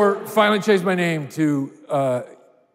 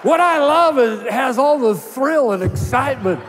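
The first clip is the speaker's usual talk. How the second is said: higher, hammed-up sportscaster announcer; Harry Caray; 5 semitones higher than usual. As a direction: boom it out like a ballpark announcer. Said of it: "dangerously close to Harry Carey".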